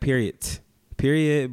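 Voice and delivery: "period" as one word ending in a T sound; clipped final T. Shown as a demonstration. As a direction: say "period" like "peeriot", without a separate "tee". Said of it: "You don't say the T".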